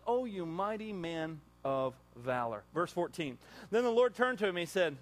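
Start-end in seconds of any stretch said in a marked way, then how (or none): 0.1-2.6 gentle God. Retold or imitated. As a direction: call him lovingly by his worth. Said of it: "God comes to him and says".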